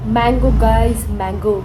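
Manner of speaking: loud, eager announcement; excited. Real, not acted. Vlogger showing her viewers mango, loud and excited. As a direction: show it off gleefully.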